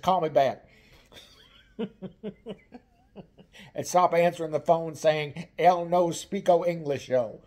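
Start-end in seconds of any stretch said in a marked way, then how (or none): 5.6-7.4 mocking her brother's fake Spanish accent, drawn out; hammed-up bad Spanish accent, slow. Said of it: "that's not real Spanish".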